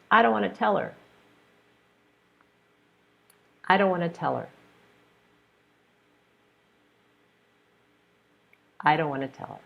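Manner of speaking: "I don't want to tell her" run together naturally; dictation of reduced forms. Shown as a demonstration. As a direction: say it as in fast natural speech. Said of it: "I'm going to say the sentence".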